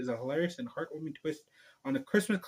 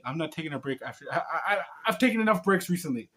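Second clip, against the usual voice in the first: laughing; faster than usual. Real, not acted. Laughing at own joke.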